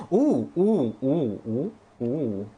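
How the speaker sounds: delighted ooh at each new find; excited oohs. Real, not acted. Gasping at discovery.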